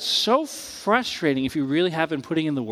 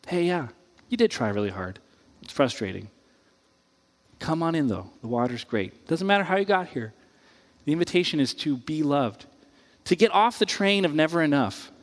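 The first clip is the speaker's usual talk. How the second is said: tender invitation; 2 semitones lower than usual. Retold or imitated. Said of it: "God voiced tenderly".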